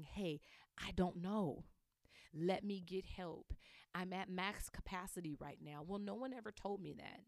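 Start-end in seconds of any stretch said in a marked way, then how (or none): 0.0-5.8 calm honest admission. Shown as a demonstration. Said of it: "You can lead by example and saying".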